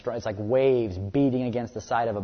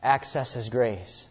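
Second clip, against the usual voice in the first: God urgently calling Paul; 4 semitones higher, 6 dB louder, much slower than usual. Retold or imitated.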